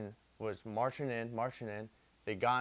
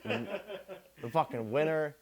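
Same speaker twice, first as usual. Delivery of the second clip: laughing; 5 semitones higher, slower than usual. Real, not acted. Laughing while telling the winter part.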